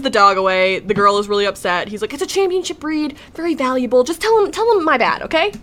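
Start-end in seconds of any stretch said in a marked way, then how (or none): 2.1-5.5 higher-pitched, hammed-up excuse-making; mock pleading. Dad hands messenger the dog, mock pleading. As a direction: plead your case in a raised pitch.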